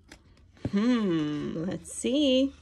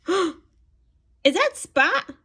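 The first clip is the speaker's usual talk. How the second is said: slow, higher suspenseful ask; hammed-up read-aloud suspense; drawn-out excited wonder; 6 semitones higher, 3 dB louder, much slower than usual. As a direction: stretch it out like a big surprise. Suspense reveal in picture book.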